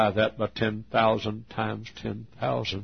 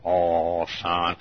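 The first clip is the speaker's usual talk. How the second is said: low, drawn-out motherly brush-off; lightly voiced mother; 4 semitones lower than usual. Mother to her soldier son over supper, lightly voiced modest protest. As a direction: lightly play a mother waving off praise.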